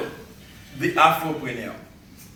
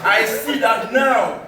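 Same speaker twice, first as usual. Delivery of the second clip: measured spoken-word delivery with deliberate pauses; poem recital; 4 semitones higher than usual. Acted. Poet to summit crowd recalling the long trek, declaimed poem recital. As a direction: declaim it line by line to an audience.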